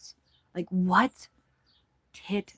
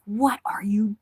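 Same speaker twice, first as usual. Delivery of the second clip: whisper; 5 semitones higher, much slower than usual. Retold or imitated. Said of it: "I was like".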